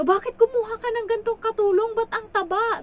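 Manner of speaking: high, loud scandalised mother's voice; indignant old mother. Retold or imitated. Mother scolds about the fat maid.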